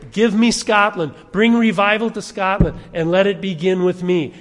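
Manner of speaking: loud, ringing declaration; proclaimed prayer. Retold or imitated. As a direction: call out for Scotland with force. Quoting John Knox's prayer.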